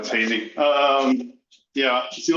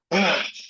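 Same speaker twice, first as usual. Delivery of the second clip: heavy winded exhale; breathless sigh; 4 semitones higher than usual. Real, not acted. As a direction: puff out a tired breath. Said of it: "Sorry, I'm out of breath".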